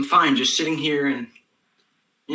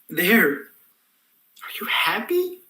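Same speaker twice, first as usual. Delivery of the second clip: snippy whisper; 6 semitones higher, much slower than usual. Acted. Snippy end to forced speech.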